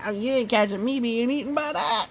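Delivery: fast, laughing fleeing voice; laughing wolf line. Retold or imitated. Reader voicing the fleeing wolf, fast with a laugh. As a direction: rattle it off laughing. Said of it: "He's like".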